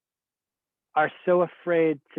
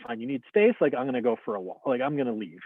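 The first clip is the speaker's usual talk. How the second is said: inner angry retort; faster than usual. Retold or imitated. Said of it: "kind of in my mind".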